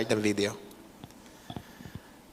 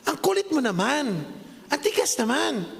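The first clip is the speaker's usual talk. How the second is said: imitating scolding teacher; 7 semitones higher than usual. Preacher mimicking the pottery teacher scolding students, higher mock scold. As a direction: scold the pupil, exasperated but light. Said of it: "Sabi niya".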